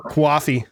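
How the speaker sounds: "Coffee" as kwaffee, falling at the end; matter-of-fact kwaw-fee for "Coffee". Shown as a demonstration. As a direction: say "Coffee" with a w after the c. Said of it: "there's a W in there".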